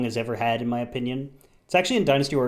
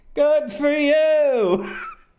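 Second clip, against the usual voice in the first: slack lazy stoner voice, long drawn-out "you"; 13 semitones higher, 5 dB louder than usual. Describing a game scene, the speaker quotes Peng Tong's reply in a Peng Tong stoner voice. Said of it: "It's a stoner voice".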